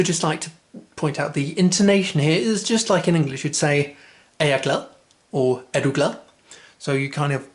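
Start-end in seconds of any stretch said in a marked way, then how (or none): 4.4-4.9 "glad" rising at the end; question intonation. Shown as a demonstration. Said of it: "raise the intonation at the end". 5.7-6.2 "glad" rising at the end; question intonation. Shown as a demonstration. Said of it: "raise the intonation at the end".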